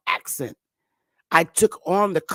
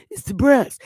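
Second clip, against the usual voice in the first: higher-pitched Bronx Jewish accent; 6 semitones higher than usual. Shown as a demonstration. Speaker imitating a Jewish person from the Bronx, Bronx accent. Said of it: "when you're speaking to a white Jewish person".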